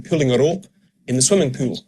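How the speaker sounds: "pulling" with the same oo as "pool"; match "pulling" to "pool" in Scottish; Scottish oo vowel. Shown as a demonstration. Coach demonstrating merged vowels, Scottish "pulling" and "pool". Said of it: "There's no difference between".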